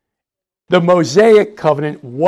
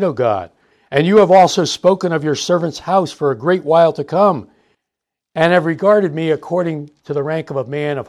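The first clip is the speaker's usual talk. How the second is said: teacher reading David's prayer to the class, earnest and raised; scripture reading. Acted. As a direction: read the prayer aloud with reverence.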